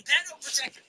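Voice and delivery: put-on high heckling voice; mock protester yell. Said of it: "they're yelling".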